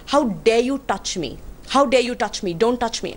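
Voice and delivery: firm outrage without shouting; indignant retort. Retold or imitated. Passenger retelling her reply to the pilot's shove, indignant.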